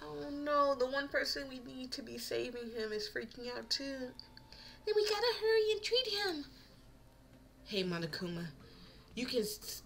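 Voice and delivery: lightly voiced anxious student; reading character lines. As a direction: play the urgent student. Voices game dialogue lines.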